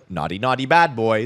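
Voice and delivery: mock scolding. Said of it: "sin is not like".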